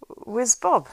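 high, loud impatient question; loud demand. A narrator's reading. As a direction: bark it at the servant. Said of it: "asked the landlord".

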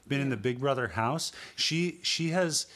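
worked-up rant about the houseguest. Real, not acted. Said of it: "yelling, you're yelling".

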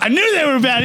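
high, squeaky I-told-you-so; teasing a friend who got pranked; mock told-you-so. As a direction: pitch way up, gloating. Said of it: "I was like".

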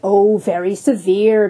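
slow ironic very severe; mock echo. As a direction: drag very severe out mockingly. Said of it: "chimed in the patient himself".

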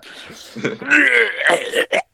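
high, drawn-out fake retching; mock throwing up. Everyone programmed to throw up, hammed-up retching. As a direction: pretend to be sick. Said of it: "programmed everyone to throw up at Zed".

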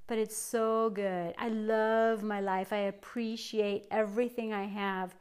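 soft, slow and heartfelt; quietly savoring each thought; tender gratitude. Real, not acted. Grateful aside about her life.

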